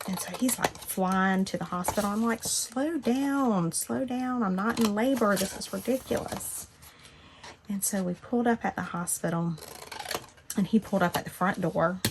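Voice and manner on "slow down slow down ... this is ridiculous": urgent protest. Retold or imitated. Husband speeding to hospital.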